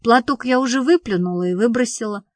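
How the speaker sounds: ordinary delivery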